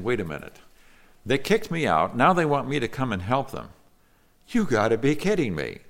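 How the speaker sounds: mildly acted incredulous protest; indignant Jephthah. Jephthah answers those who kicked him out, mildly indignant. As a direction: lightly voice a man balking at the request. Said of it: "Jephthah is saying".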